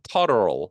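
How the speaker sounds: "turtle" low, with full R and final L; joined R and L. Shown as a demonstration. Teacher giving another hard example, R and L in "turtle". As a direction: voice both R and L in "turtle". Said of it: "뭐 이런 것들".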